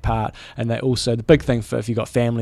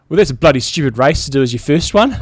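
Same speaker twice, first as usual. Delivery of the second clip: louder, put-on Yorkshire voice; Yorkshire accent; 2 semitones higher, 6 dB louder than usual. Race-report reader quoting a fellow competitor in a Yorkshire accent. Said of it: "in a strong Yorkshire accent".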